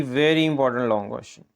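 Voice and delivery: "very important" drawn out slowly for weight; teacher flagging a must-do question, slow and emphatic; slow emphatic stress. Real, not acted. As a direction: stretch out "very" to mark it as key.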